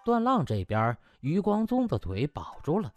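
ordinary delivery, nothing marked

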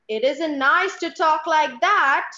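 mother's voice. Acted. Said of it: "voice modulation from mummy to child".

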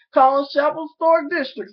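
mock Southern lilt on "Collins Chapel Historic District"; Southern accent. Naming his district in a Southern accent. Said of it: "Here go the Southern accent".

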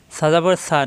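সা said softly, tongue tip at the teeth; gentle dental সা; soft consonant. Shown as a demonstration. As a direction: soften the s of সা into a lisped th. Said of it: "নরম করে".

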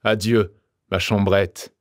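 hammed-up triumphant farewell; exclaiming in triumph. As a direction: taunt the absent detective with gleeful bravado. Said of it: "s'écria".

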